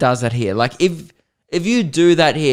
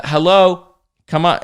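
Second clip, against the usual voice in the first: higher, mock-impatient hail; entitled hail; 4 semitones higher, 3 dB louder than usual. Entitled passenger waving the attendant over, obnoxious mock hail. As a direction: imitate someone entitled calling staff over. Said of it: "like he was entitled".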